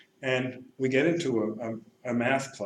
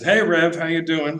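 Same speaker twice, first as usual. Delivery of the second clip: put-on calling kid; 5 semitones higher, 6 dB louder than usual. Kid calls out to priest.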